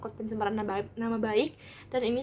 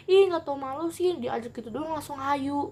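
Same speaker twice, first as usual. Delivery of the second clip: mocking jeer; 3 semitones higher than usual. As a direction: jeer at her for going along.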